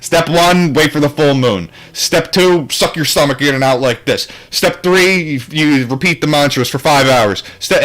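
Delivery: mock-solemn recipe voice; mock dry instructions. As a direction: read out steps like a stiff manual, hammed-up. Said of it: "I mean, like".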